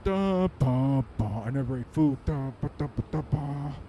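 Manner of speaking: put-on baby babble. Comic as baby Superman babbling over his first food. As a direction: babble like an infant.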